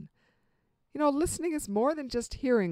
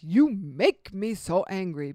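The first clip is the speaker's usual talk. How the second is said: blaming line; 2 semitones lower, 5 dB louder, slower than usual. Acted. Example of blaming speech.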